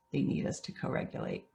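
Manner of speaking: breathy unvoiced repeat of the point; whispered. Real, not acted. Speaker repeating the key lesson to parents, whispered. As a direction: let it sink in with a whisper.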